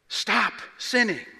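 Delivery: "Stop sinning" slow and firm, weight on "sinning"; a deliberate, firm "Stop sinning"; emphatic command. Acted. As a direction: lay it down as a command. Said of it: "notice the command".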